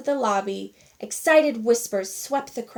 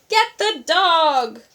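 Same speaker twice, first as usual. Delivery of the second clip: loud, slow call; boy shouting for someone to grab the dog; urgent yell; 6 semitones higher, 7 dB louder, slower than usual. A narrator's reading. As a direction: shout for help catching it. Boy chasing runaway dog.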